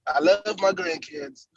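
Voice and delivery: catchphrase impression. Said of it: "Bert's catchphrase".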